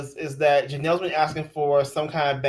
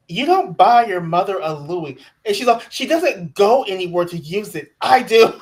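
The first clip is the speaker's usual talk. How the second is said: louder, rising outrage at husband; indignant wife; 2 semitones higher, 5 dB louder than usual. Retold or imitated. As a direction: protest loudly, getting louder. Voicing wife's outraged complaint.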